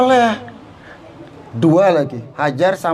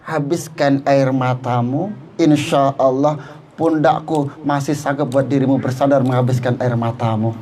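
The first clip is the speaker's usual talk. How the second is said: tender comfort; 6 semitones lower than usual. Retold or imitated. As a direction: soothe her like a loving husband. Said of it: "peluk dia dan bilang".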